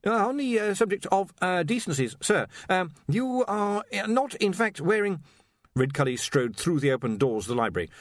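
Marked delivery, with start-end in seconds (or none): 0.1-5.2 high, stammering, anxious voice; nervous young wizard. Acted. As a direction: stumble over the words nervously.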